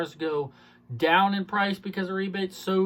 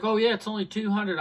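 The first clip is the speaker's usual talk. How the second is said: slightly put-on higher voice for the wife; a hint of the customer's voice, pitched up; lightly imitated customer; 6 semitones higher than usual. Salesman quotes wife on her lease payment, lightly imitated. Mimics the wife's breezy answer.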